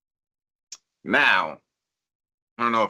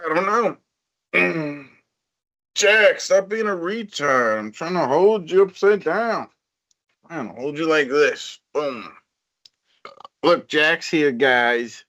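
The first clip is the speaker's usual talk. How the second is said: pet voice; 4 semitones higher than usual. Acted. Talking to pet panther puppet.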